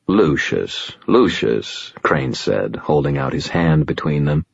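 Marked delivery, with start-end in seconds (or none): 0.1-1.9 soothing. Acted. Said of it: "his voice soothing".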